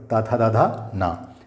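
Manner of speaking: ता, था, दा, धा, ना said one by one with the tongue at the teeth; sounding out letters. Shown as a demonstration. Teacher reciting the त row for students, letter by letter. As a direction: list ता, था, दा, धा, ना, dropping on ना. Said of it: "इनके उच्चारण स्थान दंत हैं".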